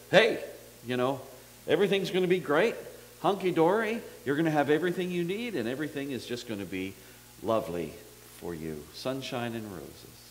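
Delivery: mock feel-good Jesus. Preacher mocks a feel-good Jesus.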